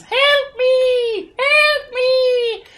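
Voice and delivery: put-on high screaming bug children crying for help; childlike bug voices. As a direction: shriek it like tiny drowning bug kids. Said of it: "childlike bug voices".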